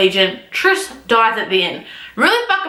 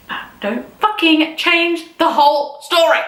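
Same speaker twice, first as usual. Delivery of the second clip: slow, emphatic irritation, slightly raised pitch; deliberate, exasperated complaint; real exasperated anger; 4 semitones higher than usual. Real, not acted. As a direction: spell it out slowly, fed up. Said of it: "there's a lot of anger there".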